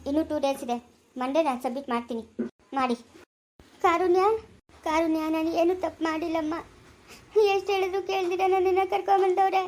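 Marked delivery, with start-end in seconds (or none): 3.8-9.6 tearful pleading, rising higher; begging through tears; an old woman cries her innocence to her lawyer; crying plea. Acted. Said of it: "ಅಳ್ಬೇಡ ಸುಮ್ನೆ ಇರು".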